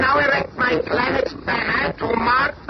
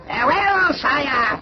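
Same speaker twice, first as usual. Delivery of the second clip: a ringing, higher farewell shout; 4 semitones higher, slower than usual. Acted. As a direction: call it out boldly as you leave. Villain departs on his mission.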